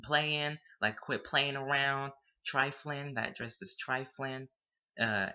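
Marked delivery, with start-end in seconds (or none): 0.0-0.6 Playing said as playin', no final G; playin' said loosely; dropped G. Shown as a demonstration. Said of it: "but you don't use the G". 2.5-3.1 Trifling said as triflin', no final G; triflin' said casually; dropped G. Shown as a demonstration. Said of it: "but you don't use the G".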